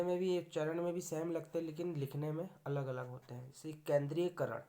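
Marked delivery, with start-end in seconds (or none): none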